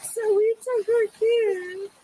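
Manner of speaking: crying as she pleads; tearful. Real, not acted. Driver pleading with officer.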